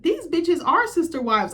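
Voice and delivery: a dramatic gasp of a verdict; scandalized. Real, not acted. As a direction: stretch it out, scandalized. Mock outrage at reality show.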